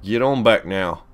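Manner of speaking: light southern-accented command; mild southern twang. Real, not acted. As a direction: herd it back with a touch of southern. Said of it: "slipping into a southern accent".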